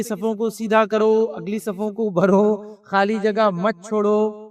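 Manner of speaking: slow, deliberate announcement, each word drawn out; imam's row announcement. Retold or imitated. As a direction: announce it slowly to the whole mosque. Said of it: "وہ یہ بولتے ہیں کہ". (امام کا آہستہ آہستہ صفوں کا اعلان)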